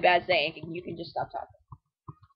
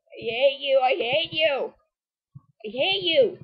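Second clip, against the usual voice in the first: higher-pitched frustrated repeating; exasperated whine; 5 semitones higher, slower than usual. Real, not acted. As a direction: whine it helplessly at the game. Cursing the Pokemon over and over.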